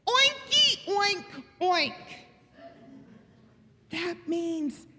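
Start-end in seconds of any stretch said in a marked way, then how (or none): 0.1-2.0 lively oinks, starting high and loud; pig oinking. Acted. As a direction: oink like a delighted pig. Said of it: "best day to say".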